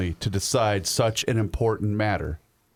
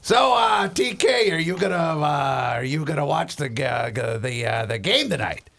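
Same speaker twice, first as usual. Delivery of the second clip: high mock interviewer; 5 semitones higher than usual. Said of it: "and he asked".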